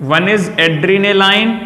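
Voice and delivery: one is adrenaline, each word drawn out very slowly; slow dictation. Shown as a demonstration. Teacher slowing down so students copy the drug name. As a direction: spell it out slowly so students can write.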